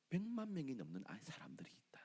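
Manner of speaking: breathy, tender whisper. Acted. God whispers to Jonah about the children. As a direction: hush it like a secret.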